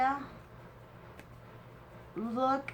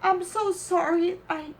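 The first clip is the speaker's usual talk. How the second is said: real tearful gratitude; emotional; 4 semitones higher than usual. Real, not acted. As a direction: apologise while overcome with emotion. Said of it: "I get so emotional".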